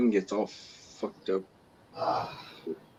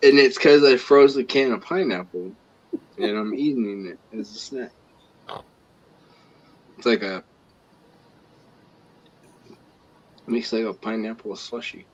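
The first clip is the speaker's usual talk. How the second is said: numb tongue. Real, not acted. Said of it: "my tongue's numb".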